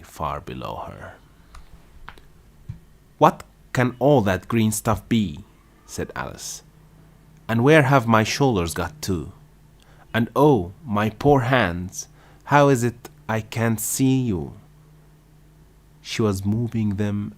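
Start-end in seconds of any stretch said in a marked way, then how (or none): 3.2-5.4 higher and louder, wondering aloud; amazed at the strange sight; puzzled exclamation. A narrator's reading. Alice staring at the green leaves far below, amazed. 7.5-14.5 higher and louder, fretful and bewildered; calling after her lost hands; dismayed. A narrator's reading. Alice calling to her hands she cannot see, dismayed.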